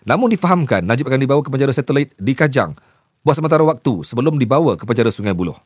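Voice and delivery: rapid, run-on news reading; news script read. Shown as a demonstration. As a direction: read a news report aloud in long unbroken sentences. Reads a news script aloud.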